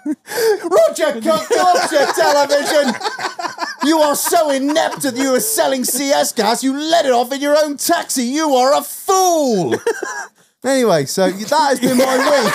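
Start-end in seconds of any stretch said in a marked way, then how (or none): 0.1-2.9 slow, high drawn-out reporter sign-off; milk the catchphrase; hammed-up TV reporter signature; Roger Cook sign-off. 3.9-9.8 hammed-up investigative reporter; mock reporter scolding. Cook confronting criminals.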